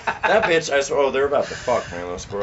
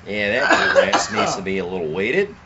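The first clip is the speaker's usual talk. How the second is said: a hint of an Aussie gardener; Australian accent. Friend riffing on garden chores in a light Australian accent. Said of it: "fucking Australian accent".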